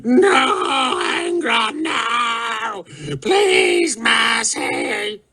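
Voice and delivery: very high, manic shrieks of a dying man; mock a victim begging for mercy; mock dying scream. Warlord manically mimicking his victim begging for mercy. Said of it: "manic in imitation of a man dying in woeful pain".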